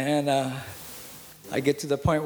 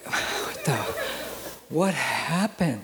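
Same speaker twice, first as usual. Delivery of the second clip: laughing; slower than usual. Real, not acted. Laughing at the memory.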